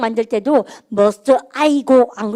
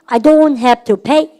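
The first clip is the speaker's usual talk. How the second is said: very slow, each word stretched and a bit louder; slow drill; 4 dB louder, much slower than usual. Shown as a demonstration. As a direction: lay it out slowly for the class. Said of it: "시작".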